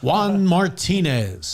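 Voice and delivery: slow booming ballpark PA call; Dan Baker announcer. Pretend. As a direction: stretch the name like a stadium announcer. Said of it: "I'm trying to do my Dan Baker impersonation".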